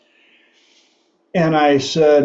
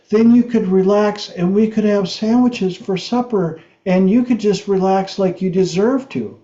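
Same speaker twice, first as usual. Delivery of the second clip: a hint of a buttering-up kid, higher voice; sweet-talking son; 5 semitones higher than usual. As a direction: coax mom gently, laying on the flattery. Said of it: "Or did you use".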